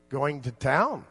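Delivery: "Going to town" with the tune lifted at the end of "town"; Pennsylvania lilt. Retold or imitated. Friends from Pennsylvania, imitating their lilt on "Going to town". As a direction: say "Going to town" as a statement but lift "town" up. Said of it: "they lifted it up at the end".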